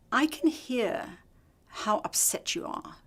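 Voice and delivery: slow and hushed, steady and calm; calm, soothing reply. Retold or imitated. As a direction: settle an angry caller gently. Supervisor calmly answers yelling surgeon.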